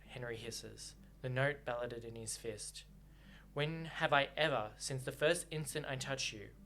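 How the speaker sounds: reading the novel aloud with feeling; audiobook-style reading with lightly voiced lovers; story narration. A narrator's reading. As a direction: read the book's lovers' quarrel to the listeners. Reading the novel's argument scene.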